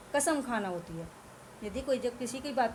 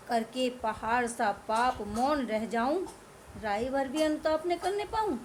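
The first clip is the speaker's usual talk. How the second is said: poem recitation. Acted. Reciting verse.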